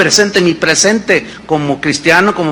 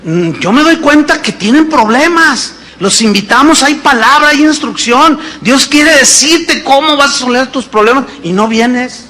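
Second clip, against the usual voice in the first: quoting Toño; 3 semitones higher than usual. Retold or imitated. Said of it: "él dijo".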